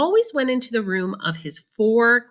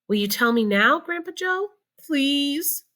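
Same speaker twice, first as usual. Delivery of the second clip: put-on pleading boy; 8 semitones higher than usual. A narrator's reading. Charlie pleads.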